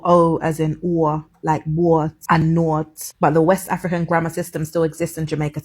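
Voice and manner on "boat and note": slow "wart" and "nought", O opened into a glide; "wart and nought", long O broken into an or sound; Jamaican O sound. Shown as a demonstration. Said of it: "the A sound and the O sound".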